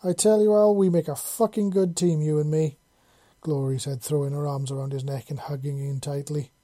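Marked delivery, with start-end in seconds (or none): 0.0-2.8 elated. A narrator's reading. Elated, hugging her teammate after success.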